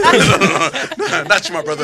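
chuckling no, no, no; laughing denial. Real, not acted. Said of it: "Why you putting over there".

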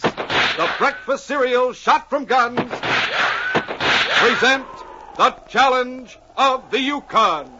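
big booming announcer read; radio announcer. Acted. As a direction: sell it like a dramatic radio intro. Announcer opening of radio drama.

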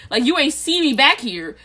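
high, indignant complaint; exasperated. Real, not acted. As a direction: scold them, fed up. Rant about door slipping.

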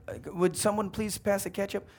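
small voice nudged up a notch. Acted. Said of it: "Little louder".

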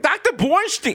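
put-on Jewish accent. Host mimics his own doctor character, Jewish accent. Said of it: "doing a Jewish accent".

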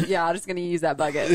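words through laughter; laughing while talking. Real, not acted. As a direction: talk as you laugh.

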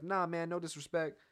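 a lightly put-on rapper voice; a famous rapper. Podcaster quotes a rapper's Twitter reply, light impression. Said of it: that it's the speaker's take on the rapper.

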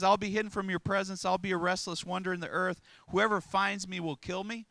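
preacher voices Cain's embellished complaint, protesting; mock Cain complaint. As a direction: rattle it off like a man inventing excuses.

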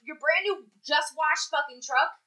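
worked-up mock rant; incredulous rant. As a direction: rant like you can't believe it.

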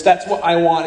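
ordinary talk

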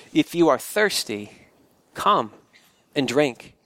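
a hint of a deep, heavy golden lion voice, unhurried. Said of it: "It was deeper, wilder, and stronger, a sort of heavy golden voice".

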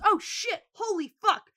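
high-pitched retold alarm; mock shock. Man startled by a shot at chips, mock shock.

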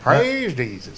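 drawn-out fake southern accent; imitating a rock singer. Showing friends the silly song line, in a mock southern accent. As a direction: stretch it out like a singer faking a southern accent. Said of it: "where Mick Jagger does his fake, like, American Southern accent".

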